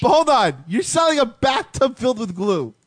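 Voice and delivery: high, shouted disbelief; high-pitched incredulous interruption; incredulous challenge. Real, not acted. Incredulous challenge to glue business.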